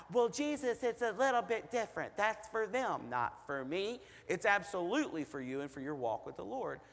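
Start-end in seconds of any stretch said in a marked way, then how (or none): 0.1-4.0 higher, mocking voice of a self-excusing believer; mock whiny excuse. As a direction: play the excuse-maker, whining. Preacher mocks excuse of believers.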